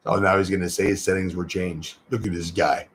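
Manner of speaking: lightly voiced low grumbling heckler; a hint of a scoffing critic; mocking sceptic. Voices a sceptical viewer's reaction.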